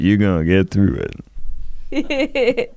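final word jumps way up; catchphrase sign-off. Acted. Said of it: "Is that my catchphrase now?".

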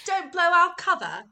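hammed-up protest at being exposed; mock protest. Girl whose British act is exposed, mock protest.

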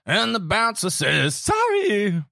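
squeaky high voice. Retold or imitated. Mimicking his own squeaky lyric.

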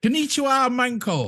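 loud, high-pitched comic greeting; hammed-up tourist hello, pitched high; mock greeting. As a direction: call it out brightly like a jokey hello. Jokingly trying the word as a greeting.

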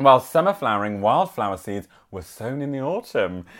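measured village bulletin reading; local news read. Acted. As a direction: read out a parish news item. Reads local news item aloud.

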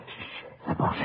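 hushed whisper to keep hidden; whispered warning. Acted. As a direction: breathe it so soldiers can't hear. Hiding from German soldiers.

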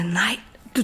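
whispered quick objection. Retold or imitated. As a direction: hush it out, insisting. Insisterer på selv at betale. (hvisket indvending)

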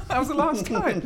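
laughing while talking. Real, not acted. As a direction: giggle through the line. Laughing at a remembered loss.

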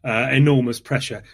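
slight fake Yorkshire accent; slipping into a faint Yorkshire accent. Real, not acted. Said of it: "slipping into a sort of fake Yorkshire accent".

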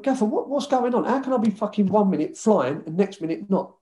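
retelling a baffled appeal for answers; exasperated questioning. Retold or imitated. Player confronting his manager about being dropped, exasperated.

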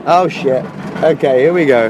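tense, loud, high yelps before the drop; nervous shouting. Real, not acted. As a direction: brace yourself and yell. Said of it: "You can hear me screaming for my life".

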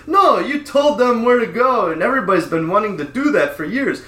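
lightly imitating the neighbor's broken English; Vietnamese accent. Neighbor insisting the dad is a hero, light Vietnamese accent. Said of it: "He goes".

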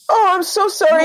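high apology, teary after laughing; tearful from laughing. Real, not acted. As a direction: say sorry through happy tears. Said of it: "I cry when I'm sad".

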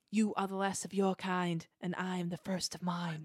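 a hint of a Brooklyn accent on the Dalek line; light Brooklyn accent. Podcast host re-quoting Dalek Sec, in a light Brooklyn accent. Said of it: "that weird Brooklyn accent".

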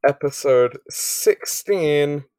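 slow, unsure reading of the title; drawn out while looking it up; slow hesitant reading. Real, not acted. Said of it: "Opens notes to check name of episode".

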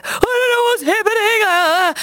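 very high mock-panicked wail; freaking out. Ringing a friend in a dating crisis, hammed-up panic. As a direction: act out a meltdown on the phone. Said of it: "so I was freaking out".

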